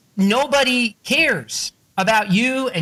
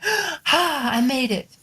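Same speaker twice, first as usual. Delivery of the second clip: mock triumph; 8 semitones higher, much slower than usual. Acted triumph after one step.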